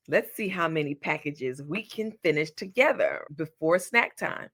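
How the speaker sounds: put-on sing-song voice for little kids; baby voice. Shown as a demonstration. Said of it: "I'm talking in my little baby voice".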